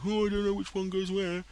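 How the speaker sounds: high, put-on silly confused voice; mock flustered. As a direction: play a helpless muddled builder, lightly. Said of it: "I wouldn't have to sit there and go".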